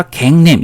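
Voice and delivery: 갱냄 with ae in both syllables; American pronunciation. Shown as a demonstration. Teacher showing Americans' first reading, 갱냄 with two ae vowels. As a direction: say 갱냄 as gaeng-naem. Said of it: "이렇게 발음하는지".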